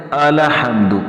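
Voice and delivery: الحمد with a fatha on the lam; الحمد said wrongly as al-lam with zabar; wrong tajweed. Shown as a demonstration. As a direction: demo of the common الحمد mistake. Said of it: "تو لہٰذا یہ غلطی ہے".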